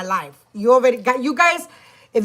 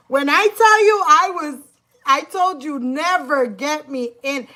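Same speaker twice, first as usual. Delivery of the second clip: worked up; 5 semitones higher than usual. Real, not acted. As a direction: still boiling over.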